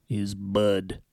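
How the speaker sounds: a light Southern drawl on "bud". Shown as a demonstration. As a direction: drawl "bud" like a Kentucky barfly. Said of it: "while affecting a believable drawl".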